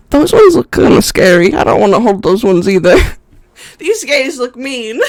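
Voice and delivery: wary tavern patron muttering; nervous, a bit loud, then fading; NPC fellow voice. Acted. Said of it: "and he goes".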